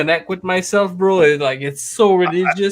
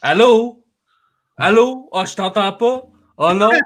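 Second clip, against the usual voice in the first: much higher, frantic French voicemail voice; imitating a prank voicemail. Worker mocking the voicemail he hates, high and frantic. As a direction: fake a bad line, then gloat. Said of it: "it's like".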